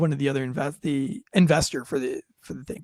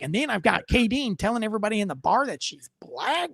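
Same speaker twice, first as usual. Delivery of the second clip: lightly voiced baffled complaint, pitched up; mock an older man's incredulous objection; appalled attorney; 4 semitones higher than usual. Attorney complaining about the bartender's skit, lightly imitated disbelief.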